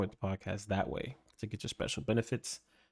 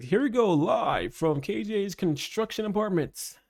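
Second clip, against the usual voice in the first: TV reporter; 6 semitones higher, slower than usual. Pretend.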